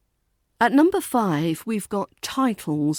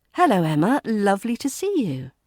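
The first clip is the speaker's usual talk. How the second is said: friendly smooth tone; faster than usual. Shown as a demonstration. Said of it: "Keep a friendly, smooth tone".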